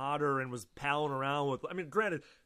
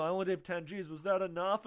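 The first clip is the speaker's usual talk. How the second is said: put-on mild, timid pretty-boy voice; wishy-washy pretty boy; 4 semitones higher than usual. Podcaster mocking Vince as a wishy-washy pretty boy, meek. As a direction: ask it meekly, unsure of yourself. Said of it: "like, wishy-washy".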